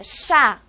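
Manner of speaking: "chá" dito forte e marcado, numa só batida; sílaba tônica forte. Shown as a demonstration. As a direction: carregue no som de "chá". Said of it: "ela tem um som forte". ("chá" com som forte, bem acentuado)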